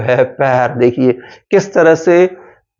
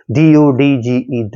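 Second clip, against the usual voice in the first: spelling out; 2 semitones lower, slower than usual. Shown as a demonstration. Teacher spells the word out.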